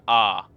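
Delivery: "R" said like the ar in start, open long ah; demo of the A sound. Shown as a demonstration. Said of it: "the same way that you would say the word start".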